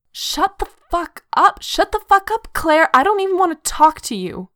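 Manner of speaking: high, loud, furious outburst; tearful angry yelling. A narrator's reading. Chrissy cuts Claire off with unshed tears, furious yelling. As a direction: shout her down, on the edge of tears. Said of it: "She's crying now".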